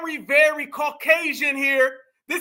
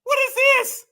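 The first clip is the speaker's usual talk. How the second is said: incredulous, climbing higher with each repeat; astonished, high-pitched exclamations; mounting disbelief; 7 semitones higher, 3 dB louder than usual. Real, not acted. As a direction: react in building disbelief, pitch soaring. Reacting in disbelief to what he sees.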